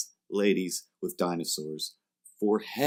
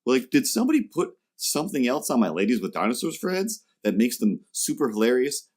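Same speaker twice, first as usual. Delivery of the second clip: mock puzzled; 5 semitones higher than usual. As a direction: act bewildered. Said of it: "I literally had to".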